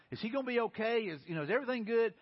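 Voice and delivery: acted worry over someone left behind; worried. Disciples rowing away from Jesus, worried asking. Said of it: "they're worried and wondered about him".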